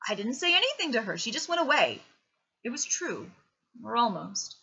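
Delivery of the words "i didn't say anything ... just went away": higher, louder defensive protest; defensive boy. A narrator's reading. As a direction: protest your innocence. Boy defends himself to father.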